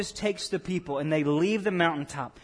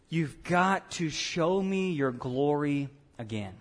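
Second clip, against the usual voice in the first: desperate plea; 3 semitones lower, 3 dB quieter, slower than usual. Retold or imitated. Moses begging God.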